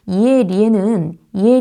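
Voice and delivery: 이에 stretched slowly, careful vowel. Shown as a demonstration. Teacher slows down to show the 이에 sound. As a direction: say 이에 slowly and clearly. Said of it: "리로 발음해야 돼요".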